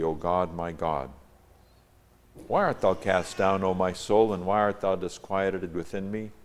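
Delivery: measured, declaimed psalm reading; scripture reading. Acted. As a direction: read out the psalm in solemn phrases. Reads the psalm aloud.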